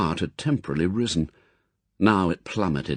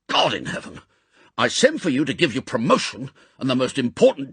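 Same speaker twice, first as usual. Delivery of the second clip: higher, fast, exploding rage; furious outburst; 4 semitones higher than usual. Acted. Chief roars at stubborn agent, furious. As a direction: let him have it. M crashes fist on desk.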